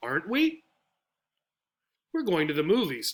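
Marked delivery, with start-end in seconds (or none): 0.0-0.6 rising pitch at the end of aren't we. Teaching question intonation on a tag question, rising pitch on aren't we. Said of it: "The question then goes up".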